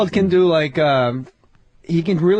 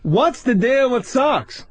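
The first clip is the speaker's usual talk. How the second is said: Seinfeld-style observational bit; 3 semitones lower than usual. Retold or imitated. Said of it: "do a little more".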